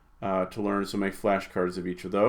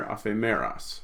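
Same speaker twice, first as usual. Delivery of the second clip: "Aphemeros" stressed on "me", a-phe-ME-ros; corrected accent; 4 dB quieter than usual. Shown as a demonstration. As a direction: stress the third syllable of "Aphemeros". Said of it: "Read the accent there".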